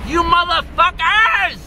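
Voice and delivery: high, ranting demand; infuriated. Real, not acted. Vlogger needing money to feed mom and cat, infuriated rant. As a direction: rage at the audience with pitch pushed up. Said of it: "I'm infuriated".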